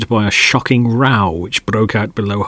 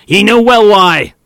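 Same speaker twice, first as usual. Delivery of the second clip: sullenly; 10 semitones higher, 7 dB louder than usual. Acted. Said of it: "returned the third voice sullenly".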